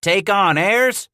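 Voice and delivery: mock outrage, stretched out; crying out. A narrator's reading. Hatcher crying out in mock offense, thumping his chest. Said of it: "Hatcher cried".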